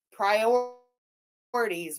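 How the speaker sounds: slow, dragged-out sarcastic word; sarcastic drawl. Real, not acted. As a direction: drag Priorities out mockingly. Sarcastic comment on priorities.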